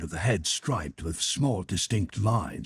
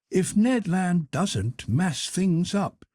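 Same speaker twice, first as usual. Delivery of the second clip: higher, deferential manservant voice; Conseil the servant; 9 semitones higher, slower than usual. Acted. Servant Conseil respectfully objects to his master, in a higher voice. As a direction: play the polite valet objecting gently.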